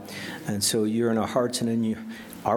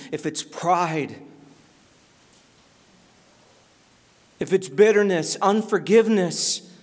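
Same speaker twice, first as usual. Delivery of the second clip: raised prophet's cry easing into firm urging; authoritative preaching; 7 semitones higher than usual. Acted. John the Baptist urging the crowd to repent, authoritative appeal. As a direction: keep the pitch up and let the force gradually subside. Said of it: "that authoritative voice as he cries out".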